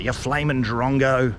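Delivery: slow, drawn-out mock Aussie insult; Aussie put-down. Vlogger mock-insulting a mate as a drongo, slow teasing put-down. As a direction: tease someone like a mate, slowly. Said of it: "when you wanna put somebody down".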